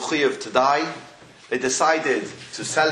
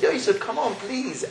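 retold begging; 5 semitones higher than usual. Ministers plead with Yosef to relent, retold begging. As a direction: coax and beg, lightly acted. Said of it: "started begging and pleading with Yosef".

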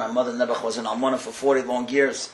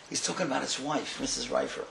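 hushed realisation; 7 dB quieter than usual. Real, not acted. Realising the principal died.

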